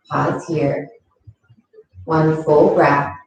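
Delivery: calm, unhurried yoga teacher voice; guided yoga instruction. Acted. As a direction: guide gently through each movement, leaving long pauses. Leads a yoga practice.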